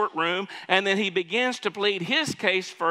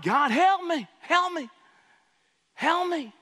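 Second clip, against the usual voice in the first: pleading cry pitched way up; crying out to God; 10 semitones higher than usual. Retold or imitated. Person in trouble calls on God, desperate high plea. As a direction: beg for help like you're desperate. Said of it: "Cry out to God".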